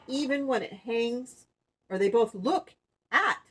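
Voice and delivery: deliberate read-aloud narration; storybook reading. Acted. Woman reading about the old cabbage moon, storybook narration. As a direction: read it to children, phrase by phrase.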